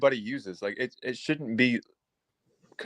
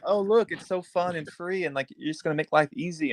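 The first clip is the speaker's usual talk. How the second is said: mock sales pitch; 7 semitones higher than usual. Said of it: "they promote it as".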